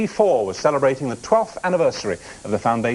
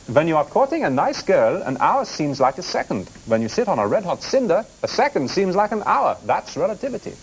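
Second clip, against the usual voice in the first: higher-pitched mock German accent; Einstein's German accent; 4 semitones higher than usual. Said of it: "it was the accent that threw you".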